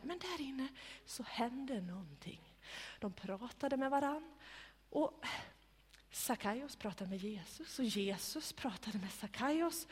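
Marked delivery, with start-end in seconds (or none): none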